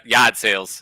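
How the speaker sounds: "yard sales" in a Boston accent, with the r dropped as "yahd". Shown as a demonstration. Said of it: "the Boston accent".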